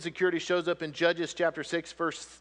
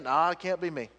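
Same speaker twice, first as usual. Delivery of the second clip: reluctant Gideon; 5 semitones lower than usual. Acted. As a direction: back away, stammering. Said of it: "we're kinda like Gideon".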